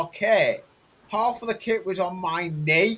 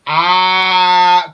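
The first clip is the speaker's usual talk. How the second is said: excited shout; 12 dB louder than usual. Real, not acted. Recognizing the named viewer.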